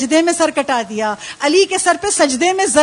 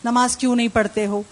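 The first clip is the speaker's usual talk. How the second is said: mother urging prayer; 3 semitones lower than usual. Retold or imitated. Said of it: "ماں نے کہا".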